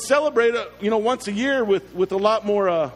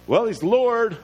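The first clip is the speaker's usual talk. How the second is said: lightly acted musing to oneself; doubting Martha; 3 semitones lower than usual. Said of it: "Martha is kind of in that weird realm".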